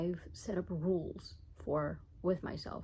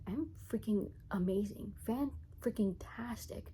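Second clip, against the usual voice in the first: playful; 3 semitones higher than usual. Real, not acted. Playful exaggerated self-praise.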